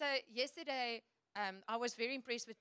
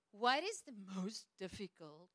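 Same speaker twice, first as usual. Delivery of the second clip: a mild attempt at an American accent; lightly put-on American accent for the journalist; understated American journalist accent; 3 semitones lower than usual. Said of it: "Was that a good accent?".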